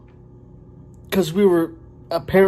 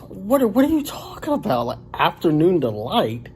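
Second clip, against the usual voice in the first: pitched-up disbelief; baffled; 2 semitones higher than usual. Retold or imitated. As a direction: ask as if the offer makes no sense. Baffled by odd offer.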